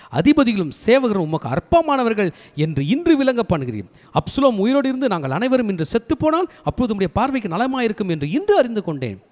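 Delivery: high, forceful recited reproach; stern rebuke. Acted. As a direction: read it as an accusation to the king. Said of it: "இந்த கண்டிப்பு தேவைப்படுது". (கண்டிப்பான குரலில் உயர்த்தி வாசித்து)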